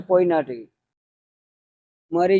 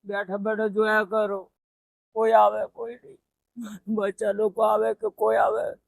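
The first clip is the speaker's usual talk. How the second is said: soft, worn words through tears; a lonely grandfather crying over his sons; 5 dB quieter than usual. Real, not acted. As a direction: speaks quietly, still weeping. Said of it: "હવે રડતા નહીં હો તમે".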